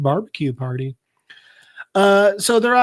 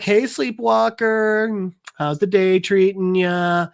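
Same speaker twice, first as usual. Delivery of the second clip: slow, slightly higher friendly lilt; sweet; 4 semitones higher, slower than usual. Retold or imitated. Petal being sweet to a friend, slow and kindly. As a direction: greet her sweetly, drawing the words out. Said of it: "being sweet".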